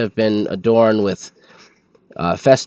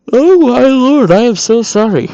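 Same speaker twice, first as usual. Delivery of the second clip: flustered apology; 12 semitones higher, 7 dB louder than usual. Real, not acted. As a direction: yelp out a mortified sorry. Embarrassed by yawning on stream.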